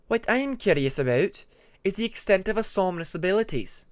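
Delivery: Ermine, curious icewing. Acted. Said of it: "Ermine inquired".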